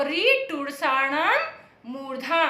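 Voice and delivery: slow sutra chant; slow recitation. Shown as a demonstration. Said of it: "ये सूत्र बहुत important है".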